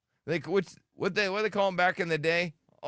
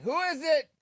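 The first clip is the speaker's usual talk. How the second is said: retold call to the door; 10 semitones higher than usual. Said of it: "I'm like".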